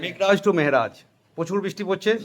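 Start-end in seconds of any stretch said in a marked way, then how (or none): 0.0-1.0 slow, measured model phrase; drilled repetition. Shown as a demonstration. Teacher has students repeat the journal entry, slow drill. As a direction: say it slowly for the class to repeat. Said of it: "Then repeat with me".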